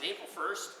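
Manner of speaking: slow questioning rise on "April first?"; "April first?" as the penny drops, rising at the end; dawning realization. Retold or imitated. Husband suddenly realizing the prank, dawning surprise. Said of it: "the light bulb went on".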